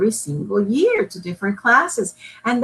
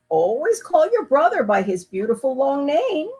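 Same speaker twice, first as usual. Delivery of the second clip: calm father; 5 semitones higher than usual. Acted. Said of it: "said Papa".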